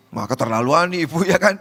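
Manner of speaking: ordinary talk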